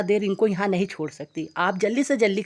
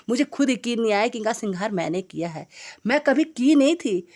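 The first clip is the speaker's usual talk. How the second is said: delighted; 3 semitones higher than usual. Real, not acted. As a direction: bubble over with joy at the result. Joyful surprise at own result.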